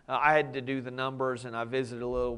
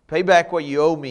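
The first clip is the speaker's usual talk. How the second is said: demanding; 4 semitones higher, 12 dB louder than usual. Acted. Servant demands the debt.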